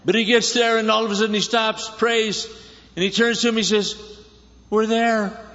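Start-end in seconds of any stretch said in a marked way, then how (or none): 4.7-5.4 laughing. Real, not acted. Laughs while quoting Abraham.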